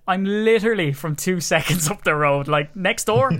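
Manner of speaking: loud, rising mock outrage; indignant retort. Retelling a reply to the internet salesman, indignant.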